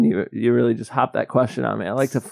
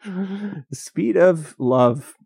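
slow, hammed-up romantic line; milk it like a cheesy greeting card; cornball line; 5 semitones higher, much slower than usual. Joking to his cohost about a quick reply, slow and corny. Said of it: "That was cornball".

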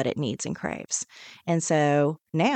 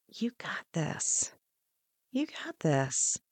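affirmation; 7 dB quieter, slower than usual. Shown as a demonstration. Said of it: "I want you to say".

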